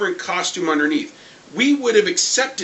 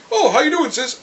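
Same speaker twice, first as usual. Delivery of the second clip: mock sister greeting; 7 semitones higher than usual. Voices Husk greeting brother.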